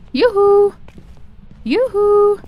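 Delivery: high, loud yoo-hoo call; hollering in a forest. Real, not acted. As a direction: holler to someone far off. Hollering at the ghost.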